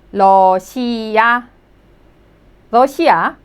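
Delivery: 러시아 as reo-si-a, syllable by syllable; Korean 러시아. Shown as a demonstration. Teacher reading a new word to learners, clear 러시아. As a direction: read 러시아 out evenly for the class. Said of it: "can you read it".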